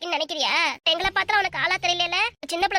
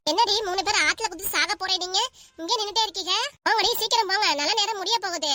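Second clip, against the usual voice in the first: mock urging; 3 semitones higher than usual. Host goads sulking friends to go and jump, mock urging. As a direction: hurry them along mockingly.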